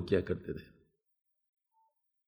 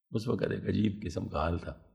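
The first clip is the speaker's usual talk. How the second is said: ordinary delivery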